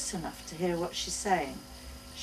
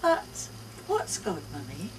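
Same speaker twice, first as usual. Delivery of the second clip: put-on child's question. Child Tess voiced by narrator.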